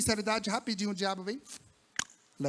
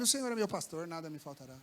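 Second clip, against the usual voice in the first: quiet psalm sinking lower toward the end; hushed, reverent recitation; soft recitation; 6 semitones lower, 8 dB quieter than usual. Shown as a demonstration. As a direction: speak the verse gently, dropping low on nada. Reciting psalm to the hungry man.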